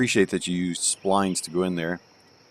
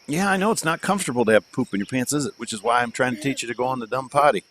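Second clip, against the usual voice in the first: higher, quick singsong explaining; 5 semitones higher, faster than usual. Real, not acted. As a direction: talk a little one through it. Father explains potty to toddler.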